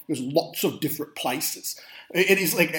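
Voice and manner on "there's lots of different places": a mild, quiet French accent, imitating Nash. Podcast host quoting Nash's reply to Garfield, light French accent. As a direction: lightly put on French accent, low and soft. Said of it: "You talk funny".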